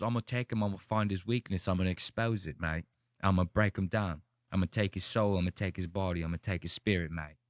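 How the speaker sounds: low, measured mock British accent; Anthony Joshua. Streamer quoting the boxer's pre-fight promise, low British accent. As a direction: imitate a British boxer stating menace calmly. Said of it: "interviews with Anthony Joshua before this".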